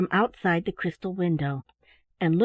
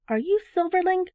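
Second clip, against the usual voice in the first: breathless cry; 9 semitones higher than usual. A narrator's reading. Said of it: "cried Teddy breathlessly".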